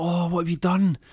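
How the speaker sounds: high, loud, worried exclamation; acted alarm. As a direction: cry out in dismay at finding her hurt. Alarmed husband finds hurt wife.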